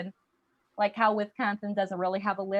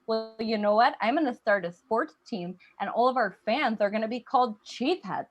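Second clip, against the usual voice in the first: lightly voiced lisping younger sister; a hint of a lisp, competitive little sister; Wisconsin. Wisconsin telling big sister Minnesota about a sports team, lightly lisping. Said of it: "Minnesota's younger sister with a lisp".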